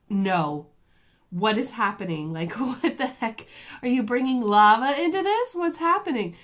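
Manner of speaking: high, loud alarmed yelps of disbelief; panicked questions at the dentist, pitch climbing; startled patient half-shouting in confusion. Retold or imitated. Alarmed self quoted, hot thing.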